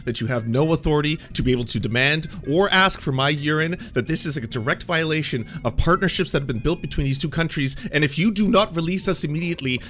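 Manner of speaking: forceful, unbroken indignant declaration; blustering bluff. Retold or imitated. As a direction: lay down a fabricated ultimatum to police. Bluffing police after embassy call.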